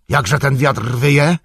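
high, loud, slow alarmed cry. A narrator's reading. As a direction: call out to the camp in alarm. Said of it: "zawołał". (głośny, wysoki okrzyk)

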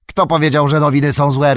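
a mild roar of indignation; understated roar. Acted. Orc warrior rounding on the tracker over bad news, mildly roaring. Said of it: "Ryknął wojownik".

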